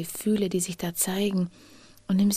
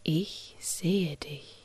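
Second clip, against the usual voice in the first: tender reassurance. Pretend. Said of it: "und sag diesem Kind".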